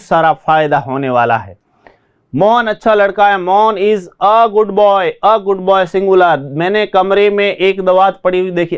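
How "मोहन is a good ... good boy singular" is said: slow, leaning on a; stressed article. Shown as a demonstration. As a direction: point out the a slowly. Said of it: "teacher demonstrates article use". (a पर ज़ोर देकर)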